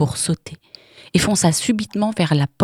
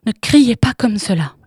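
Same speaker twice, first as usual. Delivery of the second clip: toneless pleading; 5 semitones higher, 5 dB louder than usual. Acted. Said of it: "d'une voix blanche".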